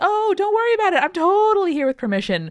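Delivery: high, breezy, tossed-off falsely reassuring tone. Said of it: "was saying to Three Lips".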